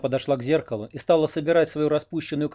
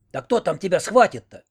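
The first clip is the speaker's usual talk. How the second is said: louder, higher scolding call; loud question; 6 semitones higher, 4 dB louder than usual. A narrator's reading. Owl calling loudly down to Oksana in the cellar. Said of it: "уже громко спросила".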